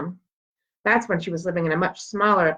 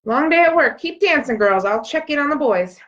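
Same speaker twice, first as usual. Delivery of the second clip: tired mom; 7 semitones higher, 3 dB louder than usual. Acted. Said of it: "Mom starts to look tired".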